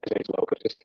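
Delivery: glitchy cut-out audio; choppy robotic call audio; little robot voice. Real, not acted. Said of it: "You sound like a little robot".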